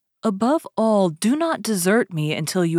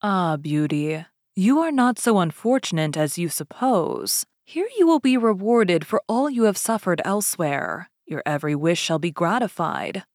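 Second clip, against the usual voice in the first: tender. Acted. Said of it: "a voice that went straight to her heart".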